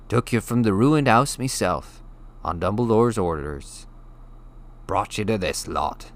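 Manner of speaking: big gentle giant telling a grim tale; rough West Country giant, hushed awe; Hagrid's voice. Acted. Hagrid continues his tale.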